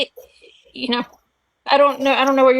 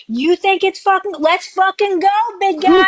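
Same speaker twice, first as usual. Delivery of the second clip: higher, louder mock challenge; egging on an old man, raised and louder; retold yelled taunt; 8 semitones higher, 4 dB louder than usual. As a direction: replay the taunt, pitched up and pushing. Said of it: "I was railing him".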